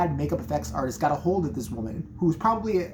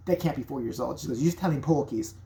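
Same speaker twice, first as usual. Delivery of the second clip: put-on British accent. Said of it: "British accent".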